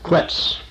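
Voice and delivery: Quetz as one syllable, KWETS; pronunciation demo. Shown as a demonstration. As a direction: say Quetz with a kw start and crisp ts end. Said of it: "you could just pronounce it".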